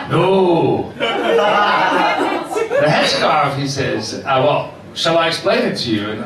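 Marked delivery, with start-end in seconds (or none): 0.1-3.5 badly faked Moroccan accent, straying into Irish; mock Moroccan accent. Barber objects about the headscarf, in a wobbly Moroccan-Irish accent. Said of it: "He's a Moroccan from Ireland". 4.2-6.1 badly faked Moroccan accent; mock Moroccan accent. Barber offers to explain to his customer, rough Moroccan accent. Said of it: "That was the accent".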